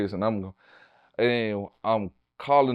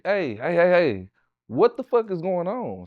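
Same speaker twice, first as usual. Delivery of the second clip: demanding wake-up call; 6 semitones higher than usual. Retold or imitated. Waking her, demanding answers.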